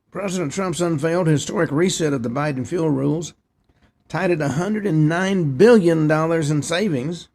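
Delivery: reading a news report aloud; steady read-off-the-page news delivery. Real, not acted. Host reads out the nativity scene report, news read.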